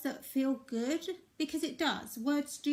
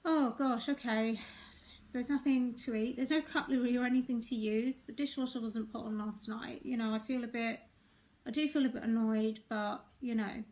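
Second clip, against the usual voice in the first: calm honest. Shown as a demonstration. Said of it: "it's a different, different energy".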